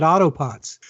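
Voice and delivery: imitated Boston accent, "Autopots" without an R. Host retelling a Boston caller's order, imitated Boston accent. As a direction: say "Autopots" like a Bostonian saying auto parts. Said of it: "who was from Boston".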